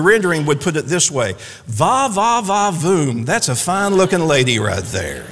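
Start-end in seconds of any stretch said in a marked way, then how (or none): 1.7-5.2 hammed-up smitten appreciation; emphatic admiration. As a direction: play up an admiring va-va-voom. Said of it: "a little bit more emphatic".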